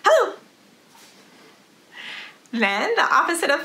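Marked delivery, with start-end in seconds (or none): 0.0-0.3 a fast, high clipped hello; quick hello. Shown as a demonstration. Teacher leading kids, saying hello as fast as possible. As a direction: snap it out fast. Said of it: "as fast as we can".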